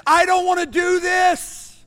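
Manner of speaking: pleading. Acted. Jesus pleads with Father in garden.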